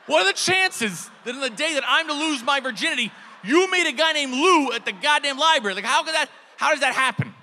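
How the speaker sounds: high laughing disbelief; incredulous. Retold or imitated. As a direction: shriek at the absurdity.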